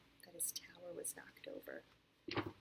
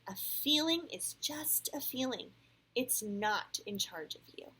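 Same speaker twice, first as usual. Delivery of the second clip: teacherly reassurance; 6 semitones higher, 7 dB louder than usual. A narrator's reading. Missus Stewart reminds everybody about feelings, clear reassurance. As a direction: state it firmly for the whole class. Teacher repeats dad's words to class.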